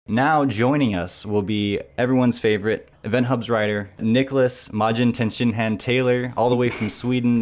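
loud, slightly hammed-up guest intro; announcer introduction.

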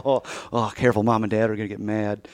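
soft, quick, hushed warning; hushed mock warning. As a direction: mimic hushing a partner so the parents won't hear. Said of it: "And I go".

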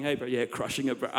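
soft, low lazy bro voice; laid-back surfer bro. Acted. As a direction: toss it off like a chill surfer. Acted casual bro, laughing.

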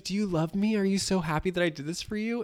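high, eager fishing for thanks; gushing mother. Retold or imitated. Mother asks her daughter for thanks, high and eager. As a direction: beg for gratitude in a high sing-song. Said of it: "She's like".

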